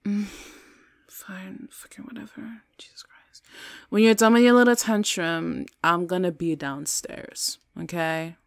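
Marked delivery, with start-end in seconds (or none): 1.1-3.4 very soft, whispery grumble; exasperated, under the breath; muttered annoyance. Acted. Girlfriend giving up on a quarrel, muttered annoyance.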